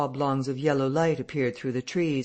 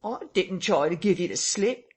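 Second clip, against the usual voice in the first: higher, pleading voice close to tears; near tears; 6 semitones higher than usual. A narrator's reading. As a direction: beg as if about to cry. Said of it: "in a voice that was not far remote from tears".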